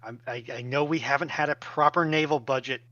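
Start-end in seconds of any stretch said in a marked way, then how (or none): none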